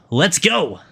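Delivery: high, drawn-out "let's go"; hyped cheer. Real, not acted. Streamer cheering to his chat, hyped. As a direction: burst out with an energetic cheer.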